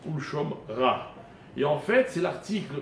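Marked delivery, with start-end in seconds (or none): 0.1-1.1 "Shom Ra" broken in two, final h exhaled; careful, separated "Shom Ra" with audible last consonant; demonstrated pronunciation. Shown as a demonstration. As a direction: pause before "Ra" and breathe out its h. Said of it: "Donc je, je dis".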